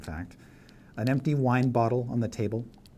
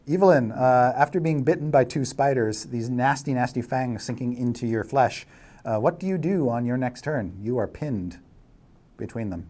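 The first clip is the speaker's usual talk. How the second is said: lively, louder dramatic narration; game master's scene setting; 3 semitones higher, 6 dB louder than usual. Acted. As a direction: play up the danger for the player.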